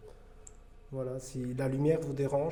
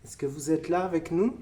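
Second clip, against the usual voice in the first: calling out; 4 semitones higher, 6 dB louder than usual. Acted. Appelle les esprits.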